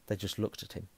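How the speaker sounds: usual speaking voice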